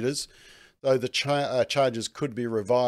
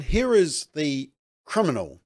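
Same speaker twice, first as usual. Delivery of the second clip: slow, raised sarcastic announcement; 3 semitones higher, 3 dB louder than usual. Real, not acted. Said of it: "I say that very sarcastically".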